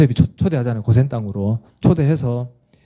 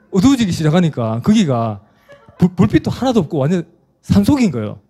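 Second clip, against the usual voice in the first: normal talking voice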